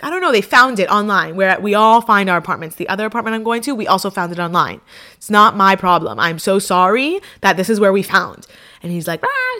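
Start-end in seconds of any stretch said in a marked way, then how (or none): 0.0-8.5 retold defensive outburst, louder in bursts; exasperated arguing. Arguing with her cousin about the apartment, exasperated. 9.2-9.6 short high-pitched imitated yell; mock yell. Cousin starts yelling at her, mock high yell. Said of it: "starts yelling at me".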